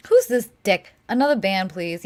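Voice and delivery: loud irritated snap; annoyed. Real, not acted. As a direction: call out the troll, annoyed. Annoyed at a chatter.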